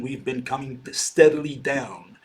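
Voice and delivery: "steadily" stretched out, slow and weighted; stress on steadily. Shown as a demonstration. Lecturer emphasizing steady decline to class, slow stress on "steadily". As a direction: lean on "steadily", slowing the whole line. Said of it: "I'm gonna emphasize the word steadily".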